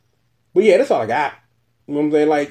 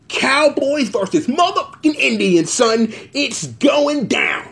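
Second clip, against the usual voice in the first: hype announcer; 4 semitones higher, slower than usual. Acted. Hyping main event like announcer.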